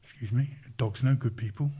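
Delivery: swaggering London accent, badly imitated; terrible London accent. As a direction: do a poor London impression with some swagger. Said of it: "Terrible London accent, but that's what he swaggered in".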